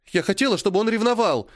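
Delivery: high, sobbed admission; tearful confession, pitched high; sobbing confession. A narrator's reading. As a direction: gulp it between sobs. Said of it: "Полина опять всхлипнула".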